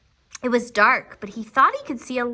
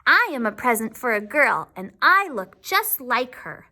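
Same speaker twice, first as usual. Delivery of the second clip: self-important doll; 2 semitones higher than usual. Acted. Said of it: "She sounded important".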